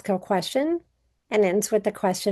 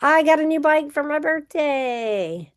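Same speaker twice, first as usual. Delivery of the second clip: higher, thrilled announcement; excited exclamation; 5 semitones higher than usual. Shown as a demonstration. Teacher giving an exclamatory example, mildly excited. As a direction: say it like great news. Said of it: "An exclamatory or exclamative sentence".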